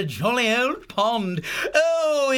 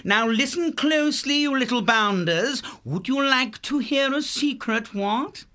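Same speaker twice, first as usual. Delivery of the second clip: calling down; 3 dB louder than usual. Acted. Horty calls down to babes.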